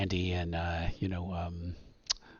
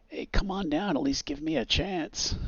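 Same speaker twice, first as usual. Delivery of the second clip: suspect calling up; 9 semitones higher than usual. Acted. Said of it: "he's like".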